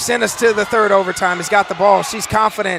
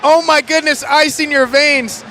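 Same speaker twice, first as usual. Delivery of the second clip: excited; 3 semitones higher than usual. Real, not acted. Reacting to tying shot.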